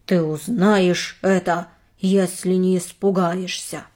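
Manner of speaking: mildly menacing whisper-like tone; low spooky voice. Acted. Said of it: "Я понизил голос, чтобы звучать таинственно и устрашающе".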